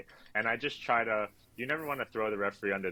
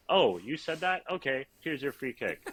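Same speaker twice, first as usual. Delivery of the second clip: sarcastic pitched-up giving in; mock caving in; 5 semitones higher than usual. Fourth official mocking a coach who wants a free kick, sarcastic. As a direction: play the pushover ref, mockingly.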